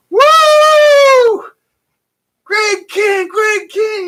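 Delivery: high cheering shout of an overexcited fan; retold crowd cheer, high and loud; excited fan yell. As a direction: whoop it up like a crazed fan at a concert. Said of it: "just really acting it up".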